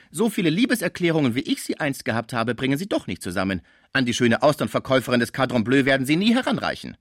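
boastful retort, lifted voice; indignant doorkeeper woman. Acted. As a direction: crow over your rival as the doorkeeper. (empört prahlende Pförtnerin)

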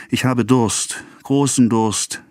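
high-pitched sigh of thirst. A narrator's reading. Sick wife begs for a drink, sighing. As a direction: draw out the words in a sigh. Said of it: "seufzte sie".

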